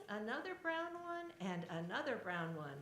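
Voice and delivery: lightly voiced quirky stick collector; Stickler voice. A narrator's reading. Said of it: "said Stickler".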